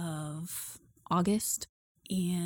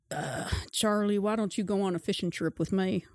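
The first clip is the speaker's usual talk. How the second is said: easygoing uncle. Acted. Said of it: "Harold comes over and says".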